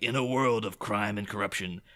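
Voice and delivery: lightly voiced movie trailer narrator, drawn-out final words; hint of a portentous announcer, slowing right down on the title; old-school trailer announcer. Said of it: "the proper old school announcer guy".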